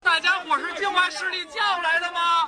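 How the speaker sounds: loud rallying call; shouting. Real, not acted. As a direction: call out to the crowd. Heated protest call and response.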